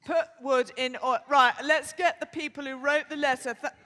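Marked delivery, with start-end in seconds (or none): 0.0-1.2 Yorkshire accent. Shown as a demonstration. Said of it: "let's have another go".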